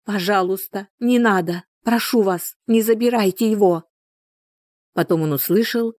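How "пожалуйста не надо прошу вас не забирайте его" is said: high, frantic begging; desperate pleading. Acted. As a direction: plead for his life. Mother begging intruders take father.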